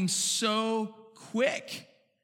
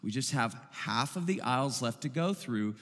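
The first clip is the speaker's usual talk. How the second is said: softer, lower calm mother; quiet; 7 semitones lower, 6 dB quieter than usual. A narrator's reading. Mother calming her fussing girl in the store, quiet voice. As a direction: hush it gently to a fussing child. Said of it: "the mother said quietly".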